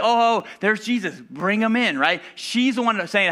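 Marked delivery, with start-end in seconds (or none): 0.0-2.0 eager Martha. Retold or imitated. Martha eagerly welcoming Jesus.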